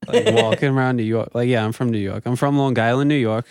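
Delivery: put-on casual New York accent; light put-on New York accent. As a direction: talk like a Long Island, New York local. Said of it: "in your New York accent".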